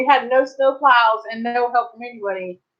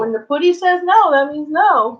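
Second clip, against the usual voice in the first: stern scolding; 5 semitones higher, slower than usual. Real, not acted. Scolding the cat, higher.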